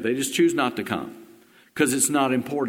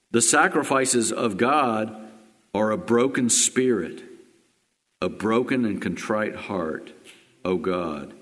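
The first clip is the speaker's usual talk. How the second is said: scripture reading. Acted. Reading Psalm fifty-one aloud.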